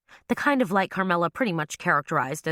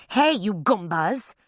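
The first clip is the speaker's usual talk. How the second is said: screaming; 3 semitones higher, slower than usual. A narrator's reading. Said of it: "Ava screamed".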